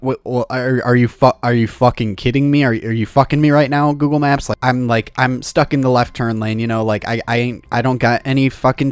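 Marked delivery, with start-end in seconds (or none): 0.0-1.3 indignant. Retold or imitated. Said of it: "And I'm like". 1.4-3.9 quick indignant outburst. Retold or imitated. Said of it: "And I'm like". 3.9-4.5 indignant. Retold or imitated. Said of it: "And I'm like".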